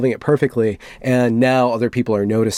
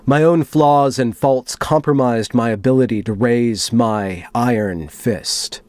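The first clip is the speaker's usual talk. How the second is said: dramatic reading. Acted. Reading a moderator's manifesto to viewers, solemn and dramatic. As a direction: read it like a grave confession.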